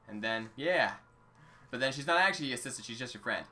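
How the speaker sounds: put-on rambling old Link in a jokey accent. Link telling his troubles to a support group, put-on accent. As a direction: play an aggrieved eighty-year-old with a put-on accent. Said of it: "I'm gonna keep the accent now".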